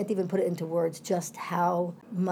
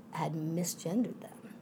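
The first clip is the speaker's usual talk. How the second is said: slow, whispered, heavy reveal; hushed whisper; 7 dB quieter, slower than usual. Real, not acted. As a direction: breathe it out as something hard to say. Telling a painful incident.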